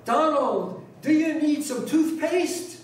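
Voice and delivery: high, loud call across the store; loud New York mother. Retold or imitated. Son imitating his mother calling him loudly in store. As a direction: belt it out like a mom calling down the aisles. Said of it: "she speaks with a big, loud voice".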